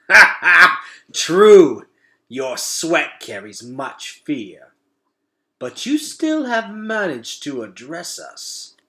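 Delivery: high, loud laugh then slow taunt; laughing rat. Acted. A rat laughing at the boy's fear, loud. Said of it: "The rats laughed again".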